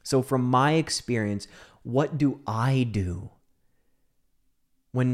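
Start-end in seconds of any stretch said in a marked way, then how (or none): none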